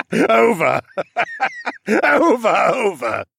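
high, mad cackling between words; crackpot cackle. Acted. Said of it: "He cackled like the crackpot he was".

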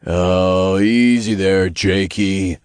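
drawn-out imp warning; cautioning, stretched imp voice. A narrator's reading. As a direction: warn a buddy off. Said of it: "Todd warned".

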